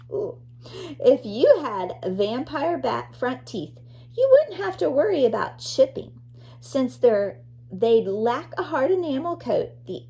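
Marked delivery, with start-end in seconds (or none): 4.2-6.1 higher, louder and fast, full of delight; excited. Acted. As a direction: rush it out like thrilling news. Reading animal facts to child.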